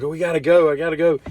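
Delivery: mock begging. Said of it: "She's like".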